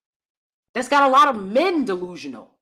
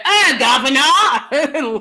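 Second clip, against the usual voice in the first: mock British accent; 4 semitones higher, 3 dB louder, much slower than usual. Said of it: "I love British accents".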